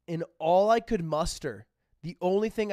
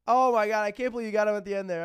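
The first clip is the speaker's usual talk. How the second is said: mocking amazement; 4 semitones higher, 4 dB louder, faster than usual. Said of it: "They all made fun of me".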